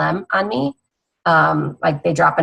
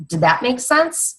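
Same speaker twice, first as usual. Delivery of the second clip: model question; 7 semitones higher, slower than usual. Shown as a demonstration. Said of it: "I use that one a lot".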